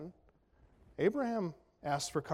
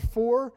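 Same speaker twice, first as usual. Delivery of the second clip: "for" punched higher and louder; stress on for; 5 semitones higher, 6 dB louder than usual. Shown as a demonstration. Preacher pointing to one word, "for" stressed loud. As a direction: lean hard on "for". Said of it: "That word".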